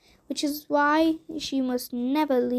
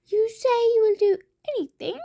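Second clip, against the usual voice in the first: fast high whispering witch; 9 semitones higher, 4 dB louder, much faster than usual. A narrator's reading. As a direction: hiss it like a witch.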